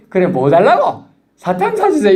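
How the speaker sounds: put-on high childish pleading; child and dad dialogue. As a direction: play the kid wheedling for candy, pitched high. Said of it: "애들이 와서".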